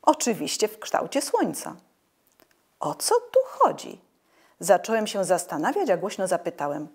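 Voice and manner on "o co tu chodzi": a high, breathy whisper to himself; puzzled, whisper it under your breath; whispered thought. A narrator's reading. Inner thought before asking aloud. (zdziwiony szept do siebie)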